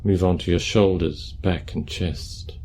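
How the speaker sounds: calm, unhurried meditation guidance; guided meditation. Acted. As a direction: guide them gently through posture and breath, leaving space.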